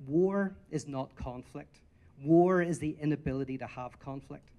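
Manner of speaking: slow and weighty, each word set apart; slow, deliberate quote. Shown as a demonstration. Quoting a comedian's line to the conference, slow and weighty. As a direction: let the line land slowly, War stressed. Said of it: "I thought that line was beautiful".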